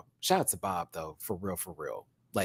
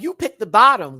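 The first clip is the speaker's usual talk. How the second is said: mock shock; 8 semitones higher, 9 dB louder than usual. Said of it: "I was like".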